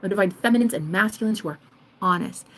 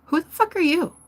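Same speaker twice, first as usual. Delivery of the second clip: tag; 8 semitones higher than usual. Acted. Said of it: "you see a divine masculine at the store be like".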